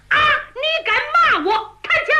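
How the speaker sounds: furious outburst. Acted. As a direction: snap back in rage and thrust. 于化龙被骂后出枪. (于化龙被骂恼羞成怒地大喊)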